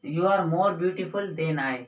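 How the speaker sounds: each word laid out slowly; measured teacher's model sentence; slow example sentence. Shown as a demonstration. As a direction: read the example slowly for the class. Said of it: "और ऐसे ही".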